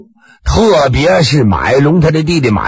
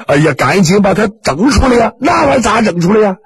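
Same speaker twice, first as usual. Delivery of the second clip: urgent shout; 4 semitones higher than usual. Acted. Onlookers shouting urgently about the poison. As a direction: shout in a hurry to get it out.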